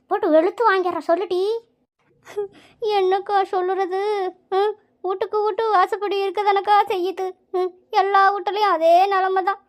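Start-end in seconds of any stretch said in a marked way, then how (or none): 3.0-9.6 higher-pitched, weepy complaining; acted crying, words drawn into a steady wail; tearful lament. Mother-in-law pours out her troubles to visiting friends, tearful. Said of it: "Pankajam, அழாதடி".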